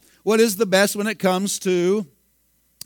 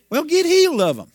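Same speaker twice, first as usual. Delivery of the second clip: much higher, loud retort; preaching shout; 11 semitones higher, 4 dB louder than usual. Real, not acted. Preacher answers the ageing complainer with a high shout. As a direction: fire it back at the complainer.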